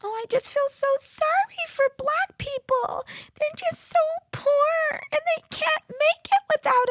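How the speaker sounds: high falsetto, whiny pity for Black people; mocking white liberal. Mocking the white liberal viewers with a simpering falsetto. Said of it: "this little attitude or this little".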